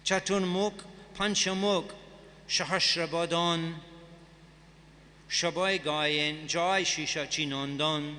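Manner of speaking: slow, deliberate recitation of the line; slow careful reread. Shown as a demonstration. Teacher rereading the Bengali verse for the class, slow and careful. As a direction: take it again, very slowly and clearly. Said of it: "I'll read that again".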